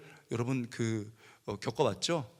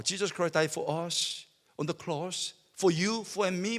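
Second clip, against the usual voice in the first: very slow, drawn-out preacher's English; mock preacher intoning slowly; preacher imitation; 2 semitones higher, much slower than usual. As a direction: stretch each word like a solemn sermon. Mimicking the preacher's English line.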